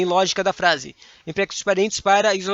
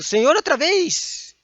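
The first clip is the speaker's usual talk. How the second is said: high, slow shocked question; surprised exclamation; 9 semitones higher, much slower than usual. Shown as a demonstration. Teacher reading an example aloud, shocked and high. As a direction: read the example like a startled outburst. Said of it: "Interrogação com exclamação".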